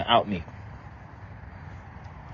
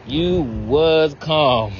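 amazed; 5 semitones higher, much slower than usual. Real, not acted. Notices the calm water, awed.

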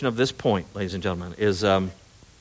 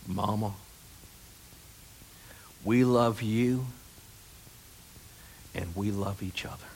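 Mitch impersonation; 8 dB quieter than usual. Retold or imitated. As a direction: whisper it gently, as if at a bedside. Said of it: "I'm gonna do my impersonation of Mitch".

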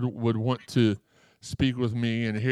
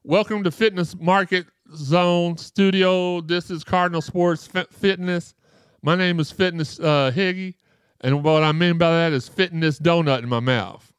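Higgy impression; 7 semitones higher, 5 dB louder than usual. Higgy opening the show to viewers, hammed-up higher host voice. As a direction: ham up a goofy show host welcome. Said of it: "he'd be like".

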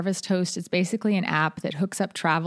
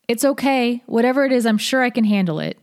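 loud, reassuring call across a field; 5 semitones higher, 6 dB louder than usual. Acted. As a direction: call out calmly from afar. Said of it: "I called out".

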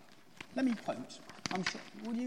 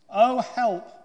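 louder, higher cry for help; distressed cry; 5 semitones higher, 13 dB louder than usual. A narrator's reading. Pooh stuck in Rabbit's hole, calling out in alarm. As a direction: call out in storybook alarm.

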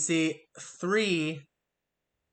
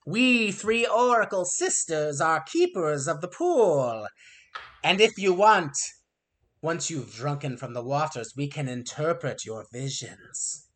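harpy voice. Acted.

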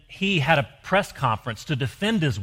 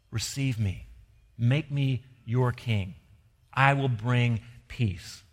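gently voiced Jesus. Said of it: "he comes and says".

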